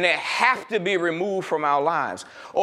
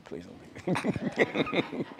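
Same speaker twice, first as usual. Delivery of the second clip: slow laughing mock plea; begging an ex back; 8 dB quieter, much slower than usual. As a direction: drag it out through a laugh. Jokingly begs audience to stay.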